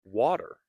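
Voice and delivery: Water, D-like T; flap T demo. Shown as a demonstration. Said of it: "we can say water".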